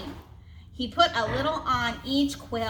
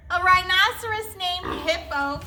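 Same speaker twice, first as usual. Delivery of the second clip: higher, crowing through laughter; cried out laughing; 6 semitones higher than usual. Acted. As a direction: shout it in delight. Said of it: "Fluffy cried".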